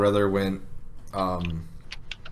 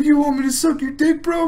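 much higher, louder drunk guy imitation; mock drunk voice; 4 dB louder than usual. Retelling the drunk guy's line again, very high mock voice. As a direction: squeak it like a ridiculous drunk. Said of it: "He's like".

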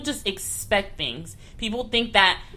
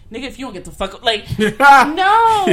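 retold snap; 5 semitones higher, 8 dB louder than usual. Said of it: "And I'm like".

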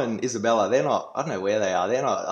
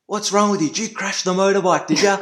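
gruff dad; 9 semitones higher, 5 dB louder than usual. Retold or imitated. Dad questioning son.

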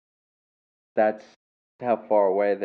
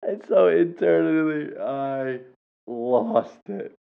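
tag; 6 semitones higher, slower than usual. Real, not acted. Still recovering from laughing hard.

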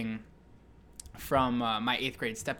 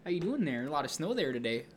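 put-on Michigan accent; 3 semitones higher, 4 dB quieter than usual. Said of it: "people from Minnesota and Michigan".

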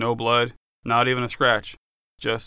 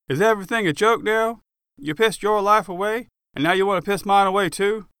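higher, sharp angry accusation; angry friend; 8 semitones higher than usual. Acted. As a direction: confront him for wrecking your life. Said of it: "he asked me, putting his hands on his hips".

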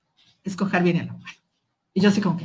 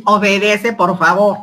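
louder, commanding official voice; firm order; 6 dB louder than usual. Retold or imitated. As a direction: order her sternly to obey. Funcionaria ordena entregar a la niña. (orden firme y más fuerte)

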